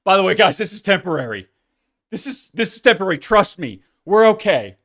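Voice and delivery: hammed-up fake reassurance to fans; sarcastic mock announcement. Host mocks a pretend announcement to fans, sarcastic. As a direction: play a smug fake reassurer. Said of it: "record a podcast and say".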